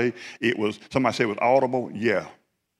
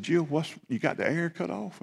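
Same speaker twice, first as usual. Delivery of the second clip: high, alarmed questioning of the wife; jolted awake, pitch jumps up in alarm; startled question; 7 semitones higher, 4 dB quieter than usual. Retold or imitated. Waking up sweating, asks wife about the air, startled and high.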